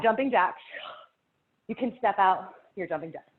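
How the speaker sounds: breathless, panting between words; winded coach, still talking; out of breath. Real, not acted. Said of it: "because I'm out of breath".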